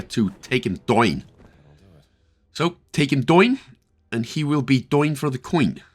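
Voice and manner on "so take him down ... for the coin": put-on slipping into a Northern Irish accent; light Northern Irish lilt on the words. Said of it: "it's my Northern Irish accent coming out there".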